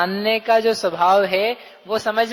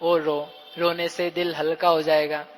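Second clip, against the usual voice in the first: mock consoling; 4 semitones lower than usual. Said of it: "क्या कहेंगे उससे".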